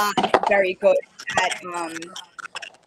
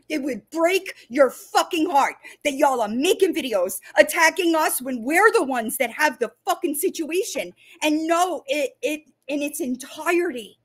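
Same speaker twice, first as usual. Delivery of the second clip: heated, raised voice, pitch climbing high; angry rant; 4 semitones higher than usual. Real, not acted. Speaking to online critics, a real, rising angry rant. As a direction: let the fury at the critics pour out. Ranting at critics making videos.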